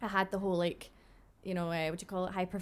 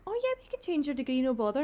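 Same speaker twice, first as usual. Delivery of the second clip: higher, easygoing reassurance; nice phone agent; 5 semitones higher, 4 dB louder than usual. Retold or imitated. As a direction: imitate a kindly helper on the phone. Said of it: "this girl was so nice to me".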